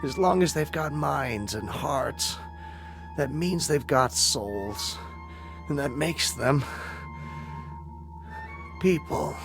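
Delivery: soft, halting last words; dying words. Acted. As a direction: speak gently with long pauses, strength fading.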